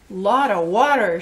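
put-on loud storybook toddler shout; Baby Blair. A narrator's reading. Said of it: "shouted Baby Blair".

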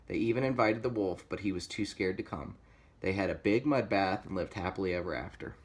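lively storybook reading; story narration. A narrator's reading. Reader telling kids of pig versus zombies, story narration. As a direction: read it like a picture book.

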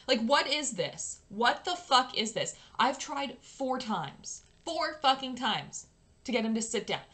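exasperated, sweary rant; angry rant. Real, not acted. Player ranting at the Sims team, exasperated. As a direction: rant at them, punching the key words. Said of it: "Sorry, rant".

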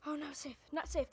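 loud panicked repeating; terrified horror victim. Real, not acted. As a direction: chant it in rising panic. Animatronic approaching, panicking.

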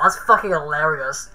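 slow, wheezing with laughter; laughing. Real, not acted. Cracking up at a silly line, laughing. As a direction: laugh the words out.

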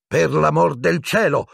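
high, overwrought exclamation; hysterical. A narrator's reading. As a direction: burst out at wits' end. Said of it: "esclamò Madame Pomfrey in tono isterico".

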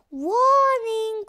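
hushed robotic alarm warning; ship alarm voice. Acted. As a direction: whisper it like a ship's computer. The ship's alarm speaks.

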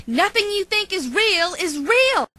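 overacted anime dub. Cat lectures dog, getting heated.

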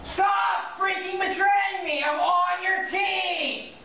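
yelling in real frustration at a teammate; furious, full-voiced protest; angry shout. Real, not acted. Gamer raging at betraying teammate.

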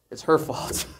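hushed, voiceless aside; mock blaming. Adam points to his wife, mock blaming under his breath. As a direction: pin it on someone under your breath. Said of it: "he points to his wife. He says".

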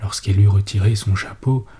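plain reading voice

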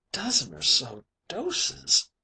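slow, dreamy, distant echo; faraway voice. Acted. Dan echoes the mate in a dazed faraway voice. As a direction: repeat it as if from far off, slow. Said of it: "says old Dan in a faraway voice".

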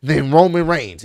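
worked-up, indignant retelling of a rant; passionate rant. Retold or imitated. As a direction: argue the case with rising passion. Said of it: "he got really passionate about it".

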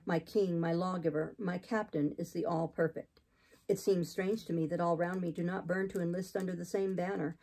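lightly voiced austere preacher; zealous missionary. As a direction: declare your faith with restrained conviction. Voices Saint John.

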